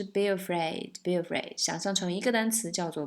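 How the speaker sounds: "be afraid" run together as one word; linked words. Shown as a demonstration. Teacher teaching linking, "be afraid" as one word. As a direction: glide "be" straight into "afraid". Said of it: "然后连读的话就是".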